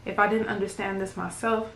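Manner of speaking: understated spoken-word delivery in measured phrases; poem recitation. Acted. Poet reads a pretty emotional poem to viewers, understated recitation. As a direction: recite it line by line, with restrained feeling.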